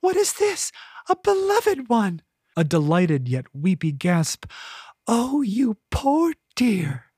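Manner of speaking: put-on very high, cooing old lady; elderly woman cooing over a stray cat, very high; trilling old woman. A narrator's reading. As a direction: trill like a doting grandmother. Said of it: "elderly woman's voice trilled".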